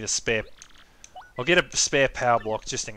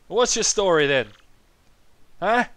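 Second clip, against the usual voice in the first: put-on high, loud old-man voice; senile old man; 6 semitones higher, 6 dB louder than usual. Old Koopa questions his visitors, loud senile voice. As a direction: demand it like a doddery elder. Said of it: "He's very senile".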